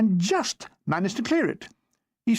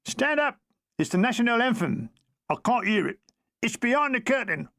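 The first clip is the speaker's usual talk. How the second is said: higher, urgent hissed call; 5 semitones higher than usual. Acted. Soldier telling his mate to stand for the anthem, urgent. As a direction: hurry a mate to his feet.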